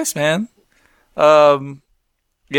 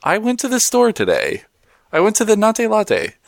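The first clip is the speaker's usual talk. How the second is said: slow, flat translator voice, a touch higher; flat translator device voice; 5 semitones higher than usual. Pretend. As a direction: read it like a UN interpreter. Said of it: "sounds like a U N translator".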